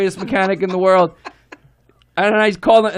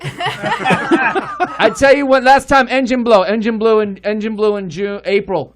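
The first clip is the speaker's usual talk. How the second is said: Chinese accent impression; 2 semitones higher, slower than usual. Chinese mechanic scolding him about the Kia, Chinese accent. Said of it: "This is exactly how he talks".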